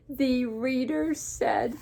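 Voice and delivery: slow setup, then a high, loud burst; big drawn-out gleeful yell; gleeful exclamation. Acted. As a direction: shout BANANA as a tickled character's punchline. Gerald laughing hard, reading aloud.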